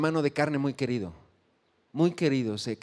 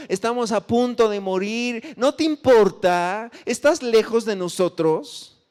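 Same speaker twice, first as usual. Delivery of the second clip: desperate plea; 5 semitones higher, 4 dB louder than usual. Acted. Disciples crying out in storm.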